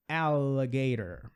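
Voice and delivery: alligator said slowly, syllable by syllable; slow model word. Shown as a demonstration. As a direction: spell it out slowly for the class.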